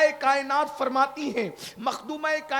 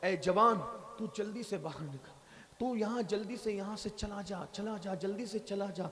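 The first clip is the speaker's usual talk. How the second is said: soft, lower urgent send-off; urgent dismissal; 3 semitones lower, 7 dB quieter than usual. Acted. Prophet to the young man, hushed urgent dismissal. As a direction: tell him to go, hushed and anxious. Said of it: "حضور علیہ السلام نے کہا".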